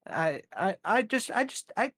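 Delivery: a host letting the fake accent slip; dropping the act. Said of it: "it hurts my voice talking like that".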